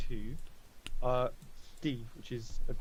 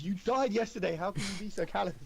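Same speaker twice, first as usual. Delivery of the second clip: mild agitation, higher pitched; a touch of panicked disbelief; slightly panicky; 7 semitones higher than usual. Acted. Game master as worried companion chiding a revived friend, mildly panicky. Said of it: "slightly panicky".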